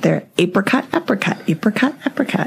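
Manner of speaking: "apricot" repeated with a long A, as "ay-pricot"; mock insistence. Arguing pronunciation with her husband: insistent "ay-pricot". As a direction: insist on "apricot", long "ay" sound each time. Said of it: "I'm like".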